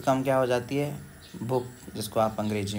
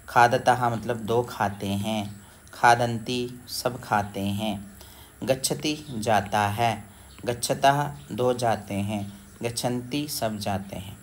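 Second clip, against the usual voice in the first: slow recitation; slower than usual. Shown as a demonstration. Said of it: "teacher reciting verb forms".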